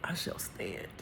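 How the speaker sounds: hushed, whispered resolve; solemn vow. Real, not acted. Speaker vows to stand for change, whispered and solemn.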